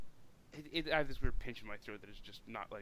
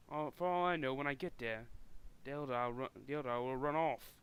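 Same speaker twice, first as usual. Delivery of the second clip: half-managed Cockney orc; lightly voiced orc with a rough try at Cockney; botched orc voice. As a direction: attempt an orc's Cockney without straining your throat. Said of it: "I'm butchering everything that is orc".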